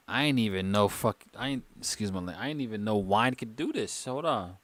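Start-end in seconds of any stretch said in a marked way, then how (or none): 2.4-4.0 slightly slurred, tipsy speech; slurring. Real, not acted. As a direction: let the words slur a little from the wine. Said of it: "am I slurring my words now".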